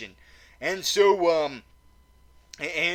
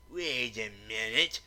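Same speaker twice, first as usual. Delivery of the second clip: much lower, softer put-on voice, interrupting; other voice; 8 semitones lower, 5 dB quieter than usual. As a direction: growl a suspicious interruption low and quiet. A second voice interjects.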